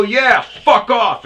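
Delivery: high, loud, slow shout; retold furious yell. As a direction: spit it out, slowly. Shouting back at driver.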